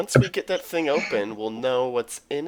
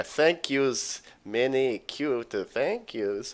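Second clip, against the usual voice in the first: put-on Russian accent. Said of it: "best Russian voice".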